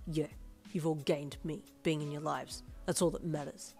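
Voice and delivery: mildly confident male voice. Acted. Boyfriend declaring they all gained him, confident. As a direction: state it evenly, self-assured. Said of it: "he said confidently".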